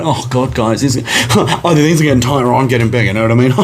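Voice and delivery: lightly camp impression ending in a laugh; floaty, effeminate man. Man stretching in his leathers before the boys, lightly camp voice. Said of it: "Yeah, proper like that".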